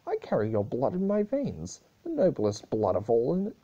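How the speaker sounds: hammed-up tantrum of a pampered nephew; angry shout. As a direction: yell back at the princess in entitled rage. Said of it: "Blue Blood growled and shouted".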